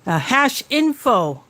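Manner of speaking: talking through a mouthful of food; cheeks stuffed full. Real, not acted. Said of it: "my phone mouth shakes".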